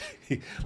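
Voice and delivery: soft mimicked snicker; imitated bully's snicker. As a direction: snicker quietly like the gloating bully. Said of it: "He started like, like".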